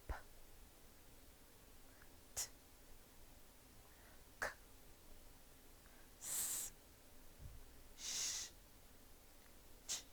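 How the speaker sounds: P, t, k, s, sh, ch as bare puffs of air, no voice; voiceless sounds demo. Shown as a demonstration. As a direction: breathe out each sound short, throat silent. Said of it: "Let us do it again".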